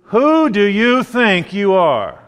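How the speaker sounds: indignant challenge. Acted. Jews challenging Jesus, acted quote.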